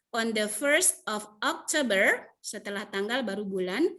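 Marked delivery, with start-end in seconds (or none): 0.1-2.3 slow model reading. Shown as a demonstration. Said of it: "jadi ini dulu yang dibaca".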